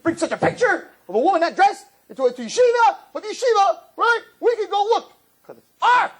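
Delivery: high, loud mock outrage from a yeshiva teacher; outraged teacher. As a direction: shriek in scandalized disbelief. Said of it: "you'd throw Rabbi Wallerstein out the window".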